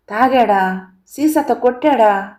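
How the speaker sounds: rising, alarmed questions; shocked disbelief. Acted. Narrator to Kamala on learning her husband hit her, shocked. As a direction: push out the questions in horrified disbelief.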